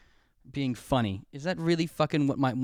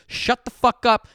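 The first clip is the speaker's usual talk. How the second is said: exasperated shout; 7 semitones higher, 7 dB louder, slower than usual. Real, not acted. Ranting at movie logic.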